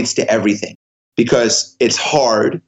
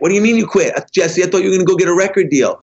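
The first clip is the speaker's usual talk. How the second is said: incredulous questioner; 5 semitones higher, faster than usual. Retold or imitated. People questioning his quitting.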